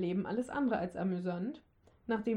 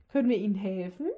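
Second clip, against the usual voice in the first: friendly old lady, lightly voiced; freundliche Frauenstimme; 4 dB louder, faster than usual. A narrator's reading. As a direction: offer help kindly in a light old lady's voice. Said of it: "ertönte eine freundliche weibliche Stimme". (leicht angedeutete freundliche alte Dame)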